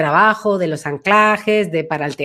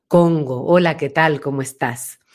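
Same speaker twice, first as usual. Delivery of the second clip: greeting said lower from the back of the mouth; back resonance, deep voice; 6 semitones lower than usual. Shown as a demonstration. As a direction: speak from the "Congo" station, low. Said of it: "mi voz se pone muy grave". (saludo con voz grave, resonando atrás)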